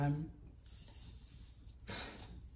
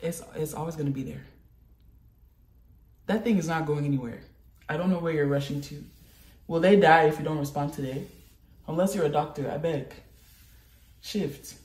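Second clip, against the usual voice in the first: advice to a friend; 3 semitones lower, 3 dB quieter, faster than usual. Pretend. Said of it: "If someone else were saying this".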